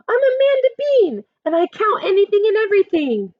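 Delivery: high, proud announcement; Amanda's catchphrase. Acted. Girl proudly announcing herself to the sheep. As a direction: declare it with pride.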